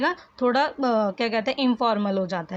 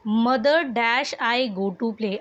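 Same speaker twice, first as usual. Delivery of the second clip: slow dictation reading; much slower than usual. Shown as a demonstration. Teacher reads exercise sentence aloud.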